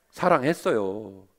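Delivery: low, soft, slow 사랑했어요; quiet answer. Shown as a demonstration. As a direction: answer 사랑했어요 gently and sure. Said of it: "물어볼게요".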